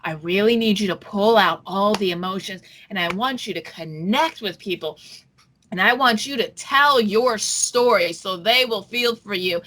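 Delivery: a hint of a smooth persuasive producer. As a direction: coax the cast like a slick producer. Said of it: "a producer ... is going".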